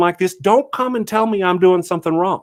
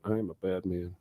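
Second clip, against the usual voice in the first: much lower, much softer mock villain; 9 semitones lower, 15 dB quieter than usual. Host repeating his joke to chat, much lower mock villain voice. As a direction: growl it low like a pantomime baddie.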